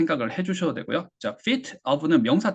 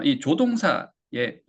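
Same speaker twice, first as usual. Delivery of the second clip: normal talking voice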